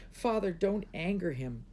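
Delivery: high, urgent plea; begging. A narrator's reading. Princess begging her father not to anger dragon, begging. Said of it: "begged Moon Lily".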